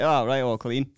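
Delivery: bright, chirpy nice-guy voice. Retold or imitated. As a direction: cheerfully sing it out. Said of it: "I was like".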